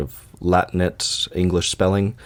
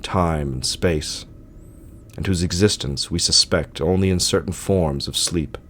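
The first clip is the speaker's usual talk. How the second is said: measured, solemn literary reading with deliberate pauses; story narration. A narrator's reading. Narrator reading Lovecraft's tale of sleep to listeners, solemn story narration. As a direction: read it as a grave gothic tale, phrase by phrase.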